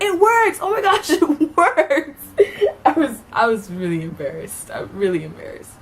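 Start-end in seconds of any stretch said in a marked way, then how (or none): 0.0-2.2 mock triumphant cheer. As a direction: crow like pranksters whose trap worked. Seniors cheering the prank.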